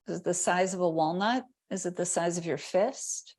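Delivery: calm body-scan guidance with long silences; guided meditation. Real, not acted. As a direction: pose gentle questions, leaving room after each. Guides attention to body sensation.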